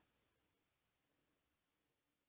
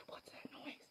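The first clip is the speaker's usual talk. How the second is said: whispered question; 15 dB quieter, slower than usual. Real, not acted. Whispered quote in dark building.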